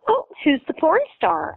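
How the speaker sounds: a hint of a sugary old woman asking; sweet old lady. Pediatrician asking the mother, lightly voiced sweet old lady. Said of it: "She's like, real sweet".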